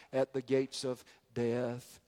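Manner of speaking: hushed, slow whisper. Real, not acted. Preacher hushing the congregation at the gates of death, slow whisper. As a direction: breathe it softly and slowly. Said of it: "whispered close of sentence".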